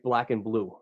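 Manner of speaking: "black and blue" in a Boston accent; easy Boston accent, the "and" swallowed. Shown as a demonstration. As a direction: run "black and" together, Boston style. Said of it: "hear that in my Boston accent".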